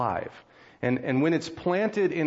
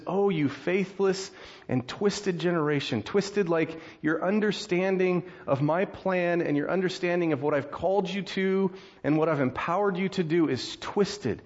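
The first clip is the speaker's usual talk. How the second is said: higher-pitched, emphatic reproach; mildly exasperated scolding; 5 semitones higher than usual. Acted. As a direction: act out a let-down teacher's rebuke.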